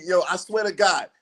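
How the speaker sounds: normal talking voice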